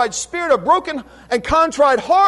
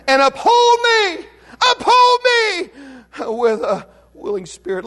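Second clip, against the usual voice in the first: rising plea dropping to a choked hush; pleading prayer; tearful plea; 3 semitones higher than usual. Retold or imitated. Repeated psalm plea, breaking.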